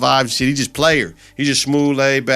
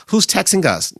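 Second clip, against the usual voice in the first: suspicious mock voice; 9 semitones higher than usual. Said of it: "Jimmy like".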